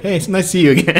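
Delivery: fast, high, giggly greeting; laughing quote. Retold or imitated. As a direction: rattle it off while laughing. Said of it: "He's like".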